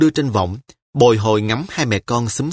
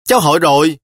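put-on lightly raised little girl's voice; a hint of a young girl asking; child's voice; 5 semitones higher, 5 dB louder, faster than usual. A narrator's reading. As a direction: speak as a small child, lightly higher.

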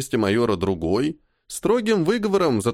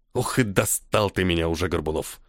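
tired, dropping softer and lower to the name; weary exhale; 6 semitones lower, 3 dB quieter than usual. A narrator's reading. Colonel worn out by the major's questions, a tired exhale. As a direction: breathe it out, worn down. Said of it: "Устало выдохнул полковник".

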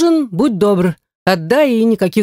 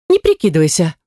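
ordinary delivery, nothing marked

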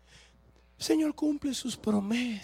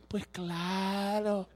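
sarcastic drawl; much slower than usual. Acted. Preacher mocking far-fetched testimonies with slow sarcasm. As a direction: stretch "Pues claro" like an eye-roll.

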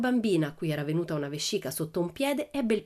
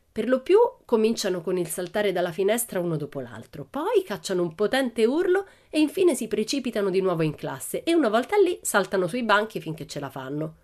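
lightly voiced Pippi, lively and cheeky; a hint of a girl boasting wild stories; Pippi telling a tall tale; 4 semitones higher, 4 dB louder than usual.

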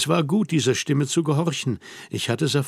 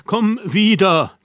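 higher, slower, drawn-out "wieder" as a final plea; imploring repeat; 7 semitones higher, 6 dB louder, slower than usual. A narrator's reading. Harry begging her to come back, most urgent plea. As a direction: stretch out "komm wieder" in begging. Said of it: "rief ich flehend".

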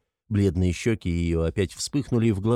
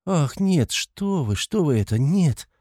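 high, alarmed protest; startled denial; 7 semitones higher, slower than usual. A narrator's reading. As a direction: rush out a frightened denial. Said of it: "С каким-то даже испугом". (испуганно, высоко)

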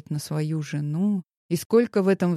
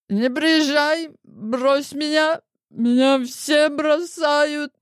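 high, slow, self-pitying wail; drunken wail; 9 semitones higher, 3 dB louder, much slower than usual. Acted. Drunk woman wailing to Grigory on the phone, self-pitying. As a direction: drag it out, drunk and sorry for herself.

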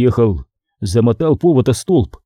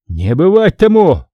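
shout; 5 semitones higher, 4 dB louder than usual. Acted. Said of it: "закричал Васька".

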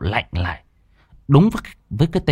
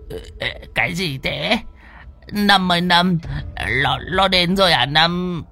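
put-on high, frightened old man's whimper; quavering, scared pleading; whimpering fright; 8 semitones higher than usual. A narrator's reading. Old man clutching his friend, calls out in high whimpering fright. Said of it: "mếu máo".

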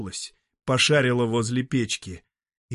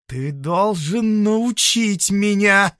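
veiled threat; 10 semitones higher, 7 dB louder, much slower than usual. Acted. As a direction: press it with a hidden threat. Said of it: "с непонятной угрозой в голосе". (с непонятной угрозой, медленно)

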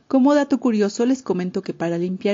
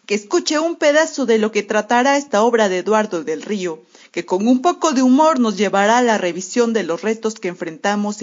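ringmaster; 4 semitones higher, 4 dB louder than usual. Acted. Announcing the book to the audience.

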